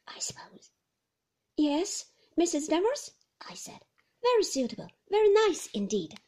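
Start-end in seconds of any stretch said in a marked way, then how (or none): 1.6-6.2 higher, louder nervous rush; eager to please, flustered. A narrator's reading. Flustered young wife on the phone.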